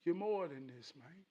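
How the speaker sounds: soft, reassuring inner voice; calming self-talk. Acted. Telling himself he is above this, soft calming self-talk. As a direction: quietly talk yourself down. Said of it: "I tell myself".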